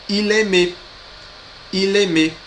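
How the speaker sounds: il aimait said eel-eh-MEH, silent t; Il aimait ending on eh-MEH, t dropped; il aimait, high, clear and linked; no final t. Shown as a demonstration. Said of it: "sem o som do T".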